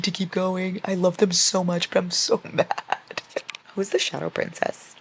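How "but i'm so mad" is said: drawn-out, laughing complaint; mad but laughing. Real, not acted. Fan who loves the couple anyway, laughingly mad. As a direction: whine it slowly and break into a laugh.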